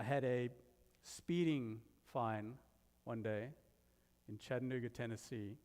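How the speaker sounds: Tennessee said with a light southern US accent; a light Tennessee southern accent on the state's name. Shown as a demonstration. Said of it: "This is a southern accent".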